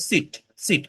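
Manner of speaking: "সিট" with a short clipped i; short i in sit. Shown as a demonstration. Teacher contrasting with see, short vowel. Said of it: "এটা just ই sound".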